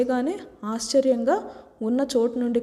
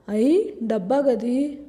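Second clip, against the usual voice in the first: slow, drawn-out excited cry; thrilled village girl sees the lift; much slower than usual. A narrator's reading. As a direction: stretch it out in delight.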